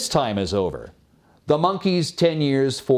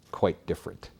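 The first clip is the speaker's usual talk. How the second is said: hushed whisper, soft; breathless hushed aside from the monkey; whispered confession; 7 semitones lower, 8 dB quieter than usual. Acted. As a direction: let it slip out as a secret. The monkey confides its sorrow.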